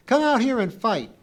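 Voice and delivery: high, shouted challenge; fierce. A narrator's reading. Pee-wee challenging the Roman, fierce shout. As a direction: yell it fiercely, daring a fight. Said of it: "she said fiercely".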